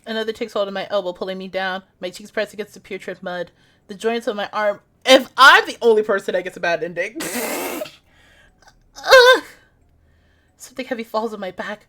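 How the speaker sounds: steady, hushed first-person narration; story narration. Acted. Gamer reading her horror game aloud, hushed narration. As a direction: read the horror scene like a storybook.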